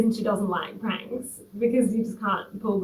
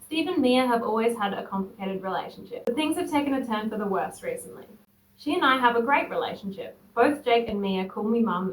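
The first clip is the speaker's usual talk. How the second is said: measured read-aloud voice, trailing softer; composed first-person storytelling; story narration; 3 semitones lower, 7 dB quieter than usual. A narrator's reading. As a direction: read the post out evenly. Reads a posted story aloud.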